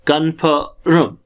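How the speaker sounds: कन्फर्म drawn out in separate syllables; sounded out. Shown as a demonstration. Teacher breaking the word down for learners, sounded out.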